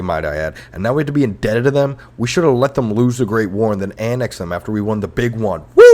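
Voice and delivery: loud, high mock tirade against the French; ranting taunt. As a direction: shout it at them in hammed-up outrage.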